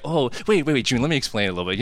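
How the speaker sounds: rushed, mock-defensive backpedalling; rapid-fire pleading, played for laughs; hurried protest. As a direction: blurt it out quickly to explain yourself. Defending himself to June.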